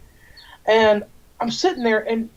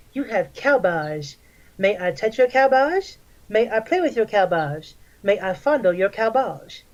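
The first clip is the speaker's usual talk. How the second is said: creepy guy voice. Retold or imitated. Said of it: "this is the voice he used".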